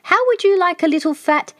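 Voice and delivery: the snake yelling after the passing elephant; screamed out. A narrator's reading. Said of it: "he screamed out".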